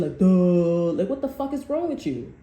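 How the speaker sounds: exasperated outburst. Real, not acted. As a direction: let the frustration burst out. Exasperated rant.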